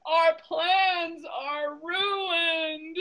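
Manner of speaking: very slow, drawn-out lament; mock despair. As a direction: drag it out in hammed-up gloom. Elephant despairs.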